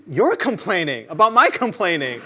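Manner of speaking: mock accusing comeback. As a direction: throw it back at him. Comeback to friend.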